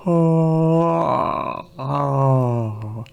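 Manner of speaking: tight, squeezed throat sound; pinched voice. Shown as a demonstration. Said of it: "tightening my throat".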